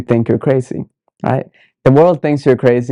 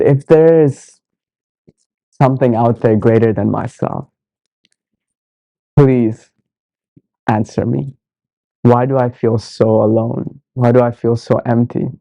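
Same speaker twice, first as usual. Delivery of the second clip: sincere call. Retold or imitated. Seeker retelling a plea to something greater, sincere. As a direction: plead simply and earnestly, leaving long gaps. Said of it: "it was like a sincere call".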